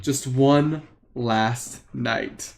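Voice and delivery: very slow, drawn-out sleepy words; half-asleep, drawling softly; sleepy mumble. Acted. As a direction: drag it out as if drifting off. Sleepy father mumbling to daughter.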